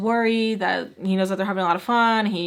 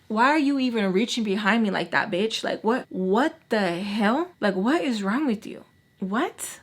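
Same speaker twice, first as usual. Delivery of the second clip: irked. Retold or imitated. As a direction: retell an exasperated telling-off, mildly heated. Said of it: "Oh, I was irked".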